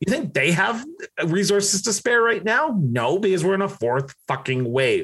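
worked up and heated. Arguing that resources are short during a fourth wave, getting heated. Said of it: "I'm getting heated about this".

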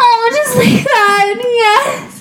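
very high faked moans. Playing a woman tricking a man into believing she enjoys it, fake orgasm moaning. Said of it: "now I'm going to fake my orgasm".

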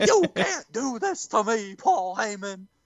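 put-on eerie Southern-accented voice. Retelling a wrestling segment, a captive pleading with Paul Heyman: Paul Bearer impression. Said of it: "your voice is pretty good too".

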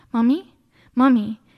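put-on calling out like a small kid. Retelling her child calling her from the window, in a little child's voice. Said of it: "I just hear this little voice".

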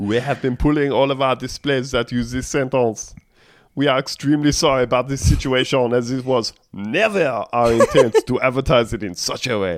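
put-on, fake French accent, read aloud. Voicing a company's statement, the speaker puts on a mock french accent. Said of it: "just decided to do the French accent".

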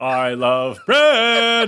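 booming, belted, high-pitched delivery. Copying the commercial line back: imitating Oprah saying I love bread. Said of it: "She doesn't do it like that".

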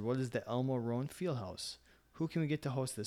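plain

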